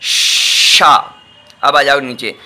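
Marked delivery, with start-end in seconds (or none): 0.0-1.1 शा breathed out with no voice; just breathe शा, no voice; whispered sha. Shown as a demonstration. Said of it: "क्या बना आपका ये शा".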